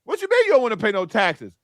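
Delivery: mock shock about the taxes; acting surprised. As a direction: play the city caught off guard, hamming it up. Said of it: "now they acting surprised".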